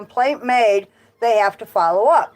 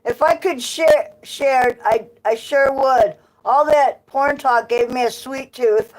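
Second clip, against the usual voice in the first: laughing; 3 semitones higher, slower than usual. Real, not acted. Laughing through the lines.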